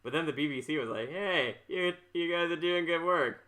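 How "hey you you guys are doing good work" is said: higher and louder, an eager hammed-up offer; mock eager BBC. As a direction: play the excited BBC boss inviting them in. BBC inviting the fan company.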